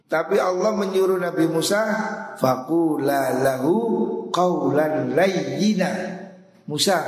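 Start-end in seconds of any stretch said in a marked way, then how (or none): 2.4-5.9 slow recited Arabic verse; slow Quranic recitation. Acted. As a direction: draw the Arabic out slowly, half chanted. Quran verse quoted in sermon.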